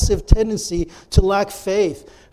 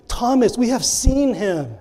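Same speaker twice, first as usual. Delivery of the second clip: earnest persuading; 5 semitones higher than usual. Acted. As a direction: keep trying to convince him. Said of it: "They were trying and they were trying".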